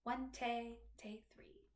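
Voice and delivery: "One tay, tay, three" counted in rhythm, tailing off softly; "One tay, tay, three" as an understated rhythm demo; staccato, accent, staccato count. Shown as a demonstration. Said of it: "style at the beginning is staccato, accent, staccato".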